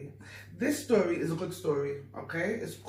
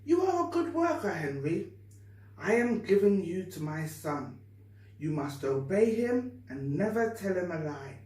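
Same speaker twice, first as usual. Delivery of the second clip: lightly voiced dying master giving orders; master's voice; 2 semitones higher than usual. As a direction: master handing Henry over, lightly voiced. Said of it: "But the master said".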